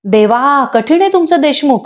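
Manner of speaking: lightly voiced mock scolding wife; child teasingly mimics a nagging aunt; imitating Manini. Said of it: "मानिनीची acting करायला लागते".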